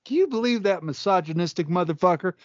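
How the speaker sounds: high-pitched mock outrage to a crowd; imitated comic onstage. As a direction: play the comic calling out his friend. Imagines Tony onstage mocking Sam.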